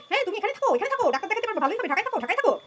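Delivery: mocking the landlady's sweet advice before she flies off. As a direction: lightly mimic a falsely kind landlady. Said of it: "উনি উড়াল দেওয়ার আগে আমাকে".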